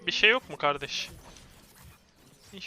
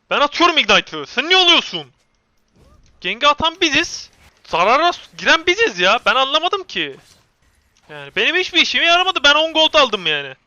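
loud, high indignant rant; aggrieved shouting protest; angry complaint; 7 semitones higher, 11 dB louder than usual. Real, not acted. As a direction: argue heatedly at a teammate, voice raised. Quarrelling with teammate over gold.

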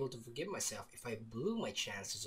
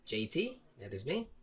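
ordinary talk, nothing marked

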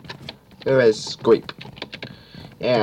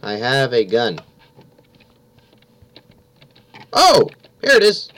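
panicking gamer; 3 semitones higher than usual. Real, not acted. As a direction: scramble in a panic. Fleeing killer, frantic.

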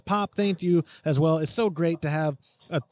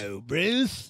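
mock Australian greeting; 4 dB quieter, slower than usual. Echoing co-host's mock shark greeting.

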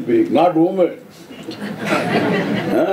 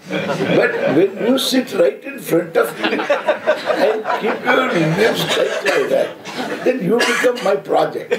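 laughing; 3 semitones higher than usual. Real, not acted. Describing the tight-lipped listener, laughing.

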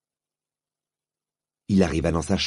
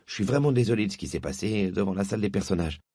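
grudging apology; 2 semitones higher than usual. Acted. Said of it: "s'écria Diggory interloqué".

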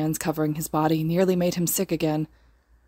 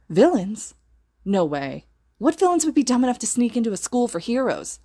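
disbelieving; 6 semitones higher than usual. A narrator's reading. Disbelieving students react to villains.

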